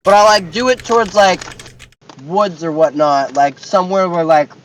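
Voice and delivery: talking while munching chips; crunching chips. Real, not acted. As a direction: mouth full of chips. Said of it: "I'm eating chips".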